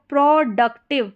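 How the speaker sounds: प्रोडक्टिव split as pro, duc, tiv. Shown as a demonstration. Teacher shows the pro pattern, word split up. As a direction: sound out प्रोडक्टिव part by part.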